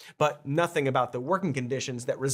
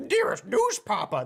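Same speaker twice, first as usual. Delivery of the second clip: strange, put-on, affected voice pitched up; 6 semitones higher than usual. Mocking how Cody would say a greeting, in Cody's weird voice. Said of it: "in that weird voice of yours ... there it is, that's what you sound like".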